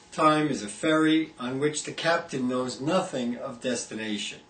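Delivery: measured poetry reading, each image set apart by pauses; poem recitation. Acted. Poet reads "Time Is" from an anthology, measured recitation. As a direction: recite it line by line, falling at the close.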